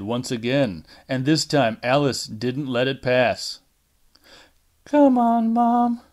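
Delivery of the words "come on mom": higher, louder, sharp protest. Acted. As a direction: cut her mother off sharply. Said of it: "she said sharply".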